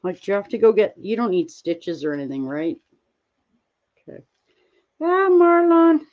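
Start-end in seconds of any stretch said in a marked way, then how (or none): 5.0-6.0 high, slow, louder happy cry of a name; light up and call the name out slowly; drawn-out excited hello to a friend; delighted greeting. Real, not acted.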